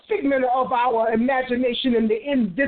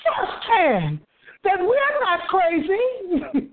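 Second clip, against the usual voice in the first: raised-pitch, exultant sermon delivery; fervent preaching; 6 semitones higher than usual. Real, not acted. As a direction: proclaim it to a responding congregation. Preaches to congregation.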